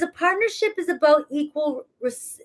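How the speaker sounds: talking around a mouthguard; words slurred by a mouthguard; wearing a mouthguard. Real, not acted. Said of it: "especially with my mouth guard in".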